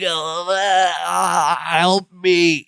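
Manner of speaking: strained, drawn-out plea through fake choking; mock choking. Larry begging his cousin for help, mock choking. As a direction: imitate a choking man struggling to speak. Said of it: "Larry struggles, is choking".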